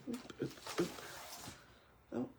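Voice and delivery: usual speaking voice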